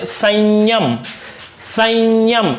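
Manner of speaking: संयम said slowly as "sanyam", the nasal like य; slow teacher demo of संयम; demo pronunciation. Shown as a demonstration. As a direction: draw out संयम so the य sound is clear. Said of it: "अनुस्वार का उच्चारण य जैसा होता है".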